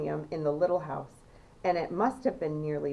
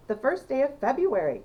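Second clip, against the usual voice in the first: higher, louder cry of surprise; excited cry; 7 semitones higher, 4 dB louder than usual. A narrator's reading. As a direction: call it out, startled by the date. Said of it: "cried Missus Bucket".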